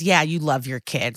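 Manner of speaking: understated sarcastic dig; retold sarcasm. Retelling detective needling the father, mild sarcasm. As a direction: say it with a touch of sarcasm.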